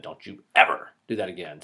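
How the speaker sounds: "ever" stressed, the whole line kept low. Acted. Teacher repeating a parent's warning, stress on "ever". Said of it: "there's an inflection on the word".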